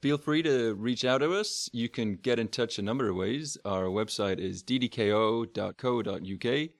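bad Texan accent impression; Sean's Texan accent. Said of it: "Here's my impression of Sean".

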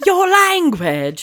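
high, slow robotic assistant voice; mimicking voice assistant. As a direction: parrot the phone's prim reply.

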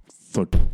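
loud, percussive "thud"; imitated thud. Storyteller imitating potatoes hitting the house, percussive thud. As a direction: make the thump of a projectile landing.

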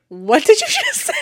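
high, loud incredulous question; amused, squeaky-high outrage; shocked disbelief. Retold or imitated. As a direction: re-enact stunned disbelief, pitch shooting up. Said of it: "I couldn't help but start laughing".

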